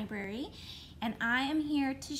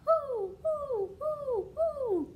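owl hoot; 12 semitones higher, much slower than usual. Pretend. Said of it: "That is what they say".

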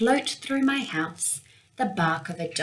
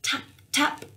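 tapping branch; 7 semitones higher than usual. A narrator's reading. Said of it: "knocks a branch".

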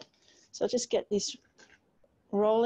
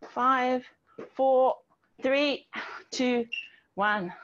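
barking gym coach; 3 semitones higher, much slower than usual. Real, not acted. Countdown shouted to class.

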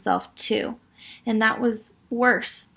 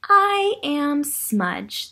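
very slow, drawn-out "I am Smudge"; slow mysterious Smudge; 5 semitones higher, much slower than usual. Acted. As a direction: introduce yourself from the dark. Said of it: "the thing said".

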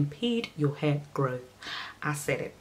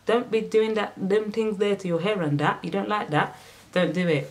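mock scolding; 5 semitones higher than usual. Scolding viewer with raised hand.

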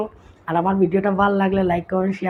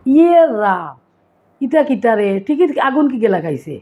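teasing exclamation. Retold or imitated. Sylheti local teasing an aunt in a red sari, mock surprised. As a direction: poke fun at the aunt's red sari. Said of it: "কিতা কইব জানো নি".

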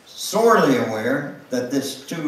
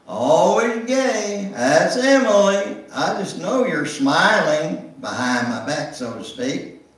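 lightly voiced Victor; 7 semitones higher, 4 dB louder than usual. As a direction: tease her like a friendly conductor. Victor greets Emily on streetcar.

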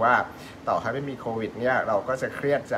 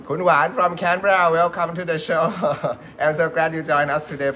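louder, higher host's greeting; real cheerful welcome; 4 semitones higher, 5 dB louder, faster than usual. Real, not acted. Host welcomes a viewer joining from Canberra, cheerful welcome. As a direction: call out a lively welcome to a guest.

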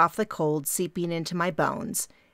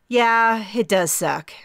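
a louder yeah then whispered rest; wry agreement; 5 semitones higher, 5 dB louder, slower than usual. A narrator's reading. Di agrees about her divorce, ending in a whisper. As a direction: let the last words drop to a whisper.

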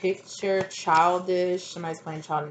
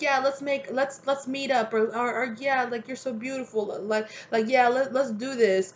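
higher, sweet-talking lure; fake flirt; 6 semitones higher than usual. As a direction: sweet-talk like a fake dating profile. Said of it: "they'll be like".

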